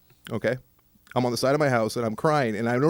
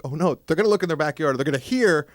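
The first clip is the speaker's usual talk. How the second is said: panicked inner voice; 7 semitones higher, 4 dB louder than usual. Retold or imitated. Remembering hiding his tears from the neighbours, mock panic. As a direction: fret like you're about to get caught crying. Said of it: "I'm like".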